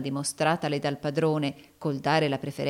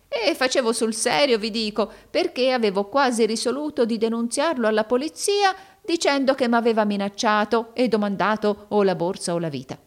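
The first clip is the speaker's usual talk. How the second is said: high, loud character voice; boastful schemer; 6 semitones higher, 5 dB louder than usual. A narrator's reading. Arturo boasting to Rodolfo of scaring the intruder, high excited voice. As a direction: protest proudly, pitched up and forceful.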